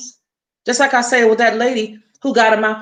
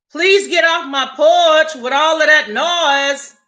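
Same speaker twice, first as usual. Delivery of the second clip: real annoyed call to someone outside; telling off; 3 semitones higher, slower than usual. Real, not acted. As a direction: order them off the porch, slowly. Telling someone off her porch.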